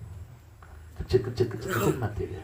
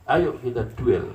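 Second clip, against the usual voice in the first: mock duel challenge; 3 semitones higher, 5 dB louder, slower than usual.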